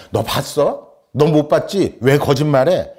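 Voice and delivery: mild mock accusation; accusing boy. Boy accuses the girl of lying, challenging. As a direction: challenge like a small boy in an argument. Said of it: "이렇게 막 여자아이가 따지는 거예요".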